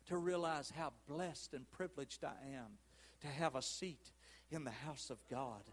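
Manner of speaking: soft, low reflective preaching; quiet, heartfelt plea to God; hushed pastoral prayer. Real, not acted. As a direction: bring it right down, with long pauses.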